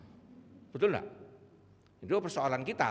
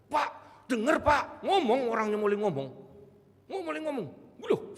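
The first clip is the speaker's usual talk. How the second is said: much higher and louder, bursting with amazement; excited news; 11 semitones higher, 8 dB louder than usual. Retold or imitated. Family tells the pastor the deaf man now speaks, much higher and louder with excitement. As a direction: blurt out the good news breathlessly.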